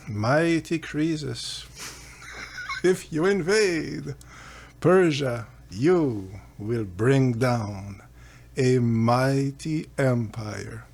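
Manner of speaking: slow, solemn prophecy with a hint of ominous; oracle's pronouncement. The oracle answers Croesus, slow and solemn. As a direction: intone it like an oracle, drawn out. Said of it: "they both say the same thing".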